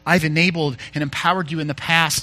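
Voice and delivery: tender, lightly voiced promise; gentle reassurance. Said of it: "kind and loving and gentle".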